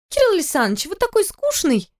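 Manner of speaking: mock him drunkenly; drunk girl teasing.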